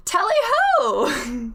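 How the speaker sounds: hammed-up British cry of tally-ho; bad British accent. Voice in the player's head announces itself, hammed-up British accent. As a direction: call it out in a put-on British voice. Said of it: "I love that they're British".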